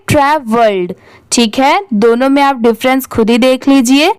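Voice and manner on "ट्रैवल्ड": ट्रैवल्ड with a d after the l; past-form pronunciation. Shown as a demonstration. Teacher answering how the longer spelling is read, model pronunciation. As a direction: model ट्रैवल्ड, ending sounded. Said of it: "तो इसे क्या पढ़ेंगे".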